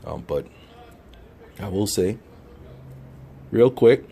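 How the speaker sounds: talking around a cigar in mouth; words muffled by a cigar in mouth. Real, not acted. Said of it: "'cause I got the cigar in my mouth".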